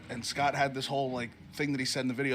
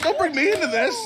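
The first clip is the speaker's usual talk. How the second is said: much higher and louder, squeaky protest; mock panicked protest; 13 semitones higher, 9 dB louder than usual. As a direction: yelp it as if dragged into gossip.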